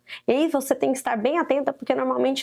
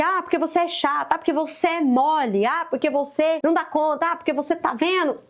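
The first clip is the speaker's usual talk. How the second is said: labelling mother; 4 semitones higher than usual. Retold or imitated. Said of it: "Mas observe isso".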